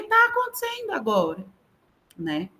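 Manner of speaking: very high, exclaimed teacher's answer; high-pitched retold insistence; emphatic reply. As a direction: insist to doubting pupils, pitch way up.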